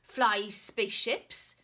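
loud, slow pompous insistence; indignant knight. Acted. Knight correcting the shopkeeper, loud and pompous. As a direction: lecture him on knightly ways.

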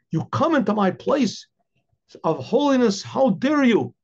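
stern holy man scolding, pitch climbing toward the end; angry rebuke. Acted. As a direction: build indignation up to how dare you.

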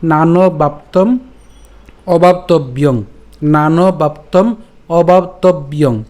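slow, drawn-out verse line; joined recitation. Shown as a demonstration. Teacher reading the parts together, slow recitation. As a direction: recite deliberately, ending on a nasal. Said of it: "তখন আমাদের উচ্চারণটা কেমন হবে?".

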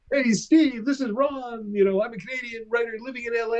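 imitating the caller. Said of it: "This guy goes".

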